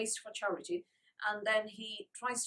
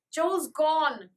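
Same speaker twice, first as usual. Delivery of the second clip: panting; 6 semitones higher, 9 dB louder than usual. A narrator's reading. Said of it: "panted Francie".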